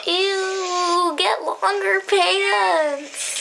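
laughing, high and slow; shocked laughter. Real, not acted. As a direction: squeal it through a laugh. Laughing at video.

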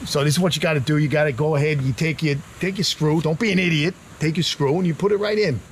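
lightly imitated bossy brother; Danny. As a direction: give curt instructions like your brother. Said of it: "me doing an invitation to my brother Danny".

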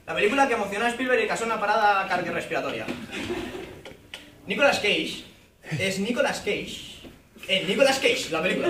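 lightly voiced trailer announcer, pausing between phrases; mock film trailer. Comic pitching an imagined Nicolas Cage film, mock trailer voice. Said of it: "el trailer sería".

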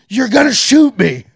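slow incredulous shout. Retold or imitated. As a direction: stretch it out, yelling in shock. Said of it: "confronting guard".

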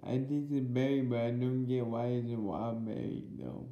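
chewing between words; talking while chewing. Real, not acted. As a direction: mouth partly full of candy. Seen 0: Cheek bulges and lip movements suggest chewing while talking between bites.

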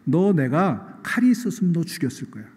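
hammed-up scolding of a stubborn donkey; mock angry scolding. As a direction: nag the donkey in mock fury. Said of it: "지금 발람이 나귀를 향해서 뭐라고 그랬어요?".

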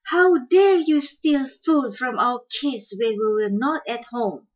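father bird confronting the thief; angry. Acted. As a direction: demand an answer, voice up and loud. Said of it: "Father Quail said angrily".

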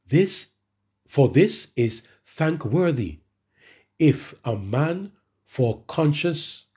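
slow, deliberate Bible reading; measured reading of the verse; scripture reading. Acted. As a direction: read each phrase slowly and weightily. Reads scripture slowly.

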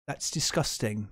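a weak, barely-there Aussie twang, slow; a clumsy try at an Australian accent; bad Australian accent. Mocking how Australians say it, in a bad Australian accent. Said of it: "That's a terrible accent".

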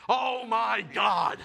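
drawn-out delighted Oh my God; slow rapturous gasp of joy; slow excited exclaim. Acted. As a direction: savor it like a revelation. Raving about contactless delivery.

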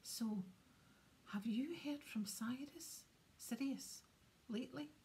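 hushed, slow, secretive question; very quiet. Acted. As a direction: ask it under your breath. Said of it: "said very quietly to Harry".

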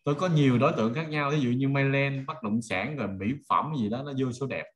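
usual speaking voice

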